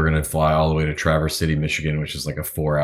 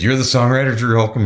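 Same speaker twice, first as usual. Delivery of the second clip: higher, louder disbelieving question; can't believe it's really him; incredulous; 7 semitones higher, 4 dB louder than usual. Retold or imitated. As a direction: pilot asking the singer in amazement, higher and louder.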